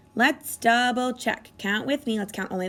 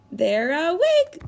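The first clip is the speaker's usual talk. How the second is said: slow, louder happy reveal; delighted; 4 semitones higher, 4 dB louder, slower than usual. Pretend. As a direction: announce with delight. Ladybugs wake.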